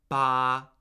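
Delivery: "ba" held long on one even pitch, loud; high level tone. Shown as a demonstration. Teacher demonstrates a Mandarin syllable, high level tone. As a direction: hold "ba" steady and level. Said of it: "those are four completely different words".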